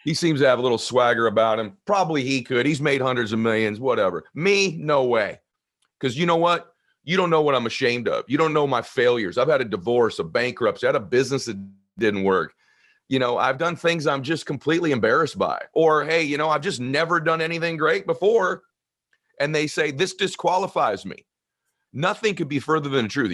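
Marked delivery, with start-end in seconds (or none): 0.0-5.4 imitating a skeptic, pitch lifted; raised, dismissive voice of a doubter; self-disqualifying doubter. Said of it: "Most people think they're disqualified from helping others". 6.0-21.3 imitating someone ashamed, in a raised pitch; higher-pitched, insistent self-disqualification; self-disqualifying doubter. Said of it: "Most people think they're disqualified from helping others".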